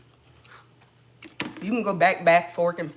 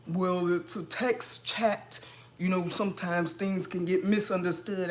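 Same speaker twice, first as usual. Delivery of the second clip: slow, drawn-out smug excuse; mock agent excuse. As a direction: drag it out like a lazy excuse.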